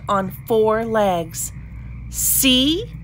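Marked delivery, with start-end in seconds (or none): 2.1-2.9 higher, pleased "told you so"; a light storybook exclamation; exclaiming. A narrator's reading. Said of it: "exclaimed Marilyn".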